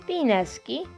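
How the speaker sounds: ordinary talk, nothing marked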